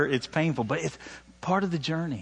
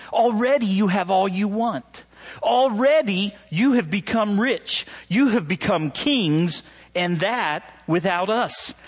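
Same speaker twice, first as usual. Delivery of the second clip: a higher, mock-admiring scripture read; sarcastic reading; 5 semitones higher than usual. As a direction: lay the sarcasm on thick as you read. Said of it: "Do you notice the sarcasm that's here?".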